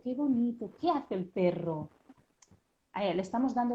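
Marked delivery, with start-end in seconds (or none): 0.0-1.9 lightly voiced parent talking to a toddler; sweet question to a little one; talking to a child. Shown as a demonstration. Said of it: "nuestros modelos".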